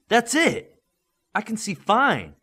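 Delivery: high, delighted disbelief; surprised. A narrator's reading. Midas, realising he can see, in high surprise. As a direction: gasp it out as sight returns. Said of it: "Midas said in surprise".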